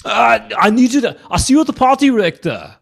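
loud, high mock-English action star; hammed-up accented strongman; Arnold Schwarzenegger. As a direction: shout the catchphrase in an English-Austrian accent. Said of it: "Schwarzenegger with an English accent".

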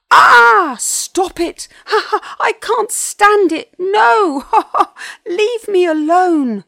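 high, very loud, laughing shrieks; squealing laughter between desperate pleas; helpless ticklish pleading. A narrator's reading. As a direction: beg through unbearable tickling. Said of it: "pleaded the Tovosaurus as he wriggled".

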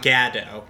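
"Gadot" with first syllable as in "gad"; Midwestern short A. Shown as a demonstration. Podcaster ruling out a reading, "Gadot" said "GAD-oh". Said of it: "vowel "a" like we do".

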